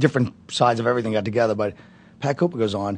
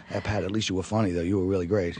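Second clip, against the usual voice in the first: groveling; 4 semitones lower, 7 dB quieter than usual. Retold or imitated. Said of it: "I figure I'll grovel to Pat".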